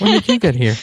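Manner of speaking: loud high call; yelling across the room. Real, not acted. Calls to newly arrived friend.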